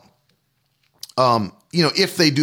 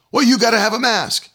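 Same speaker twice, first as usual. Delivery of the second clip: higher, pushy imitation of the manager; mock store manager; 7 semitones higher than usual. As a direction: voice the manager higher and demanding, mocking him. Manager confronts him in store.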